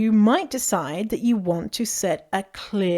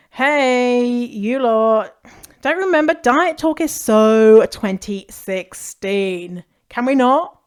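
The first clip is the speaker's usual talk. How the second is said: playful teasing callout, slow and louder; 3 semitones higher, 4 dB louder, slower than usual. Shown as a demonstration. Teasing friends to drop diet talk, playfully louder. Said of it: "you can be playful with boundaries".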